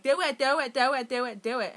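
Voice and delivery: egging her on like a nagging addiction; monkey on her back. Retold or imitated. Inner monkey urging her to use, pushy chanting. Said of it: "argument with a monkey on my back".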